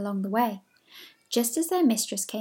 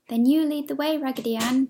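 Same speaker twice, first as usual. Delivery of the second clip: higher, louder eager call; eager cry; 4 semitones higher, 4 dB louder than usual. Acted. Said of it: "cried the French dolly".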